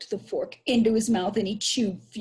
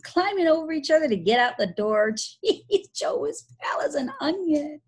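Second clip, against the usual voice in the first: high, gleeful chuckling; laughing; 9 semitones higher, 4 dB louder than usual. Acted. Billy telling Tom of the others' panic, laughing. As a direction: crow it with bursts of laughter.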